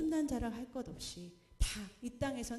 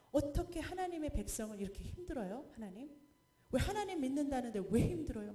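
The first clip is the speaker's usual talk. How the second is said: mock complaining protest; 4 semitones higher than usual. Preacher voicing Habakkuk protesting to God, mock indignant. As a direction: imitate him demanding an answer. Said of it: "막 그래 따지는 거예요".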